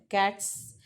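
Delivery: कैट्स ending in a hissed, unvoiced s; voiceless final s. Shown as a demonstration. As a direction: let the end of कैट्स die into a voiceless s. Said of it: "voiceless sound आता है".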